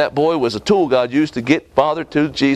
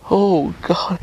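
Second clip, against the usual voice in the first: whispered plea; 5 semitones higher than usual. Acted. Father's desperate prayer.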